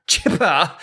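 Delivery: chipper in a British accent, dropping the final r. Shown as a demonstration. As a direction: say "chipper" the British way, ending "chip-uh". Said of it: "gotta say it with a British accent".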